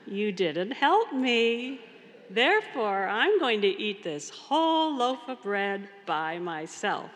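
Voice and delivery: slow, pointed refusal, half-acted like a miffed hen; lightly voiced little red hen, smug and slow; spiteful hen. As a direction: draw it out to make the animals pay. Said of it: "And she says".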